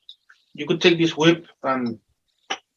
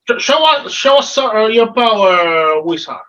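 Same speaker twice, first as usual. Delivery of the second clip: demanding farmer; 4 semitones higher, 4 dB louder than usual. Acted. Farmer demands wizard show power.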